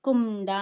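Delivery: కుండ with the middle sound hummed through the nose; nasal sound. Shown as a demonstration. Teacher demonstrates the nasal letter, nasalised కుండ. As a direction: hold the nasal in కుండ before the final syllable. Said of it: "ముక్కుతో పలికే ఒక అనునాసిక ధ్వని".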